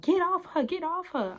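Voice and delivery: high-pitched imitation of a yell; mock yelling bus driver. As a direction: mimic the driver's yell, not full volume. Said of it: "Bus driver yelling at me".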